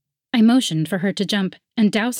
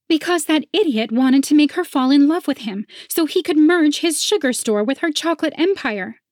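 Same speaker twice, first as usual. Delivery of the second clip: contemptuous rival voice; 8 semitones higher, 4 dB louder than usual. A narrator's reading. Penelope explains scheme.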